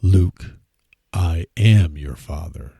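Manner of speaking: slow, loud, lightly voiced Vader; hint of Darth Vader's menace. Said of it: "And he says".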